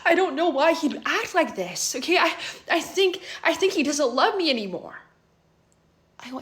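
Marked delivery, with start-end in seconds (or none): 0.0-5.0 retold crying. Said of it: "She immediately starts crying".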